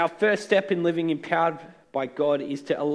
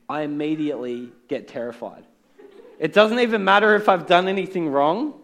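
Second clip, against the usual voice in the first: laughing through the words, louder; amused self-mocking laugh; 5 dB louder than usual. Real, not acted. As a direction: chuckle at your own nerves while you say it. Laughs at own fear of police.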